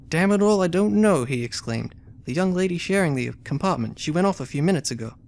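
reading the game text aloud as a story; story narration. A narrator's reading. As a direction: narrate it like an adventure novel. Reads story and character dialogue.

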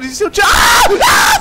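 piercing high scream; terrified scream. Real, not acted. Player attacked, screams in terror. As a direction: shriek in terror.

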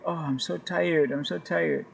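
imitated weary Nigerian driver; mock-tired Nigerian accent. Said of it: "that's my best Nigerian accent".

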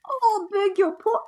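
put-on very high, slow squawky British accent; bird British accent. Streamer retries the old man as a birdlike British voice. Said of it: "that's like a bird, bird British".

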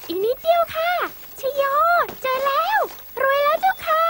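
high, loud joyful cry; excited cheer. Acted. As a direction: cheer like you've won. Cheering at the find.

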